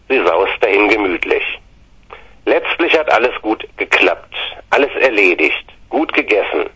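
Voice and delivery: rhythmic comic poem reading; light poem reading; poem recital. Acted. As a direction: recite it with bouncy verse rhythm.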